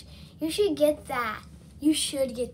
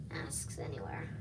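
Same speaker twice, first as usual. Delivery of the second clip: washcloth briefly over mouth; speaking through cloth partly; talking while wiping face; 3 semitones lower, 8 dB quieter than usual. Real, not acted. Seen 0: Cloth wipes cheeks and eyes, covers nose and mouth around 1.5s.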